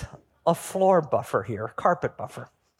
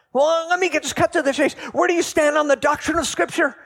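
higher, louder, fussy bureaucrat quiz; officious supervisor angel; 11 semitones higher, 3 dB louder, faster than usual. Acted. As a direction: grill him like a pompous official. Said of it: "And the angel".

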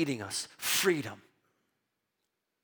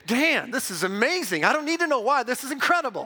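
imagined gushing wife; 4 semitones higher, faster than usual. Retold or imitated. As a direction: play the delighted wife. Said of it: "I believe she would say".

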